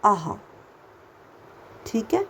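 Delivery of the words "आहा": a light half h; aha with a half h. Shown as a demonstration. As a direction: breathe a half ह after आ. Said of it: "आधा ह".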